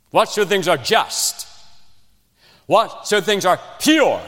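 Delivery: fervent sermon recitation of verses; preaching scripture. Acted. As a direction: build each "whatsoever" like a pulpit climax.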